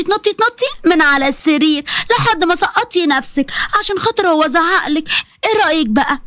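put-on sly old woman spelling out her threat; a hint of a cruel villainess; menacing mother-in-law. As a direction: taunt her with the plan.

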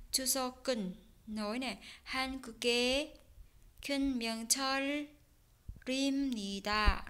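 추석은 한국의 큰 명절입니다 with the sounds joined; smooth connected Korean reading; linked reading. Shown as a demonstration. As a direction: model the liaison in 큰 명절입니다. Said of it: "Đấy, đọc nối ha".

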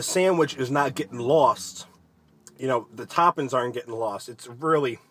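talking between bites; licking fingers while speaking; mouth full, chewing. Real, not acted. Seen 1: Bites sandwich at -4; chews, then licks fingers until 1.5.

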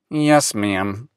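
sighing. Acted. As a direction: sigh it out, defeated. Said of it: "sighed Willis".

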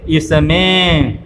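इसमें drawn out slowly with a nasalised में; anusvara reading demo. Shown as a demonstration. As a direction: model इसमें slowly for learners, nasal on the last vowel. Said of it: "कैसे पढ़ेंगे?". (इसमें को खींचकर, आख़िर में नाक की ध्वनि के साथ)

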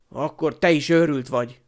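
mildly snarled retort; snarling. Acted. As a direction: throw the insult back hard. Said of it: "acsargott Seamus".

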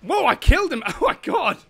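loud victory yell; triumphant shout. Real, not acted. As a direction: celebrate the kill loudly. Kills the monster.

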